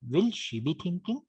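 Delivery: "Will" leaned on as a question opener; stress on WILL. Shown as a demonstration. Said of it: "we have to stress the first word".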